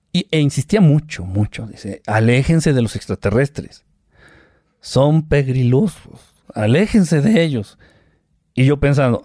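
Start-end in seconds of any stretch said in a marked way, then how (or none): 2.1-7.8 slow, even robot voice. Retold or imitated. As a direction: speak like a speech synthesizer. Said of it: "con su voz de robot".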